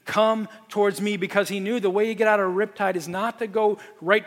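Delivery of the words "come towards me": raised call across the water, mildly retold; retold shout. Surfer calling the caught swimmers toward him, mild retold shout. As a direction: call them in, stretching out towards. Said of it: "He just started screaming that".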